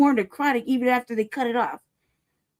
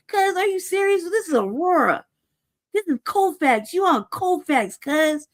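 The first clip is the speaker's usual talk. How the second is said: higher-pitched, indignant outburst replayed; a touch of angry disbelief; retold anger; 5 semitones higher than usual. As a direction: replay how you told them off, heated. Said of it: "I'm mad".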